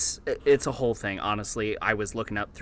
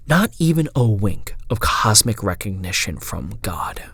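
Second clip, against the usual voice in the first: grave, deliberate storytelling; solemn, dramatic audiobook horror read; horror story narration; 4 dB louder than usual. Acted. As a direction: read a dreadful confession aloud over music. Narration of the journal continues.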